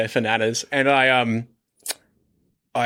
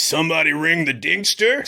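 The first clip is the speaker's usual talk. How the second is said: higher, rising comic catchphrase; ringtone character; 4 semitones higher than usual. Retold or imitated. Comedian mimics his own text tone, ringtone character. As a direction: call it out as a cartoonish line, pitched up. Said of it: "a character comes in ... his line is".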